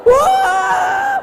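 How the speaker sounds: mock wonder at the crowded mosque; mock amazed gasp.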